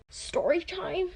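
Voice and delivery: slow, stretched half-whisper; soft, drawn-out storyteller's tease; hushed title tag. Pretend. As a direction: softly draw out the catchphrase.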